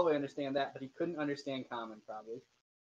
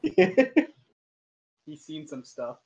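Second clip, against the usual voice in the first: slow loud haunted; 10 dB louder, much slower than usual. Acted. Joking about traumatized bug.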